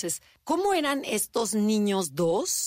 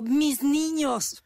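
doting sister-in-law; 7 semitones higher, 4 dB louder, much slower than usual. Retold or imitated. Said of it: "tengo una cuñada que dice".

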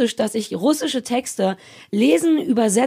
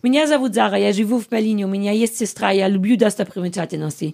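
speaking Russian; 3 semitones lower than usual. Shown as a demonstration. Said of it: "Sag mal was Russisches".

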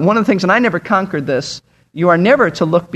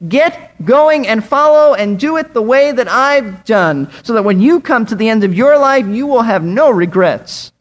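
mildly raised, commanding voice easing off toward the end; shouting general; 3 semitones higher than usual. Acted. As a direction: urge the troops on like a general. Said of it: "general who is shouting to the privates".

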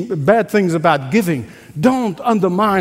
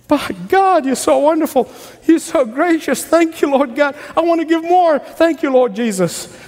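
higher, excited thanks to God; a giver thanking God in delight, higher and excited; cheerful giver's praise; 5 semitones higher than usual. Retold or imitated. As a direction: gush with joy over the gift.

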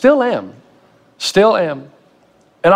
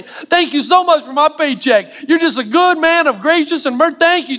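higher, fawning over-the-top gratitude; mock gushing thanks; 6 semitones higher than usual. Employee thanking his boss for the paycheck, mock gushing. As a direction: gush to the boss, hammed up. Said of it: "go into your boss and say".

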